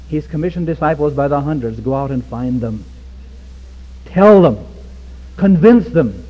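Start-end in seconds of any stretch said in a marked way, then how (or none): 4.0-6.2 forceful command. Shown as a demonstration. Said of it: "repeated command, marked take".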